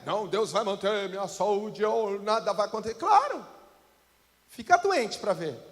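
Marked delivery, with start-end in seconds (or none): 0.0-3.0 complacent believer. Retold or imitated.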